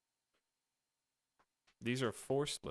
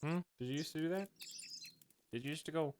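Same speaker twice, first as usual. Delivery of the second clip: mock whine; 6 semitones higher, 4 dB quieter, much faster than usual. Imitating the dog's whine.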